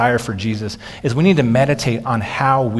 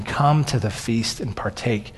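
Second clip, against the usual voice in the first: gentle invitation; 3 semitones lower, 3 dB quieter than usual. Retold or imitated. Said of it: "and Jesus saying".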